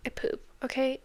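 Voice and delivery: whispered. Real, not acted. Confiding an embarrassing detail.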